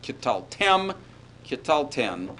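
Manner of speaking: "Kital tem, kital ten" with a short schwa in "ki"; first syllable reduced. Shown as a demonstration. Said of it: "you will see a reduction to schwa".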